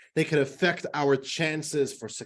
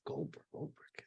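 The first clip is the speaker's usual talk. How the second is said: naive businessman voice; 8 semitones higher than usual. Acted. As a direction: play the naive newcomer, puzzled, drawing it out. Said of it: "So this Chinese guy says".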